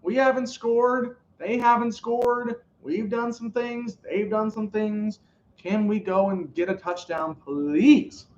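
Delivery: Matthew Stafford. Retold or imitated. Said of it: "Matthew Stafford's like".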